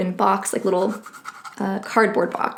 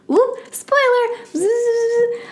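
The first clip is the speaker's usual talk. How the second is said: sudden high yelp of alarm; startled catch; 13 semitones higher, much slower than usual. Real, not acted. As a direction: stop yourself mid-spoiler, startled. Catches herself nearly spoiling item.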